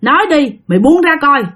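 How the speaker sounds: lightly voiced exorcist; stern shaman. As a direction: order the spirit off. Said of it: "Ổng mới nói rằng á là".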